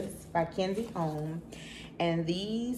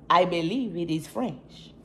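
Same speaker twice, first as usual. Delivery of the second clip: mock French accent. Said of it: "I don't even know if that's a French accent".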